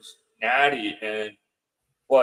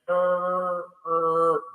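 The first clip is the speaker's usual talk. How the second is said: higher, strange moaning "er, er"; imitated ghostly groan; 6 semitones higher than usual. Guest imitating the ghost's groan before she appears, moaning. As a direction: copy the creepy groan coming closer. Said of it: "and I heard".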